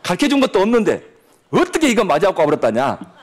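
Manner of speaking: doting Jeolla granny, chuckling over her grandchild; Jeolla dialect grandma. Retold or imitated. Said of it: "전라도 버전을 하겠습니다". (손주를 예뻐하며 웃는 전라도 사투리 할머니)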